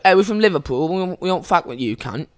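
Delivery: lightly put-on Liverpool British accent; mock British accent, playing a local from Liverpool. Two friends fooling partygoers into believing they're British, put-on British accent. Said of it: "speaking with British accents".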